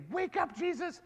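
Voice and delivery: demo line. Shown as a demonstration. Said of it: "on a count of three, say".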